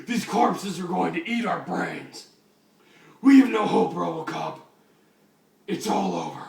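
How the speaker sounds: loud despairing cry; desperate shout. Acted. Batman despairs, voiced loud.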